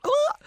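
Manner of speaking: sudden high startled cry; high horrified yelp; shocked shriek. Real, not acted. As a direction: gasp out a squeal of shock. Reacting to creepy scene.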